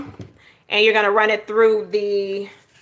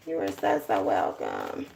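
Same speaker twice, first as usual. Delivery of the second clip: whispered you're welcome; 11 dB quieter than usual. Real, not acted. Soft follow-up to thanks.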